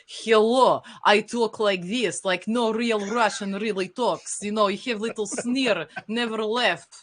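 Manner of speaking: hammed-up Russian accent with a sneer; sneering nineties action-movie Russian, slow and heavy; mock movie Russian accent. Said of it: "nineties American action movie. ... you have little sneer".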